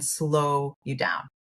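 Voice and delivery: slow you down stretched out slowly, word by word. Shown as a demonstration. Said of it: "literally in the moment".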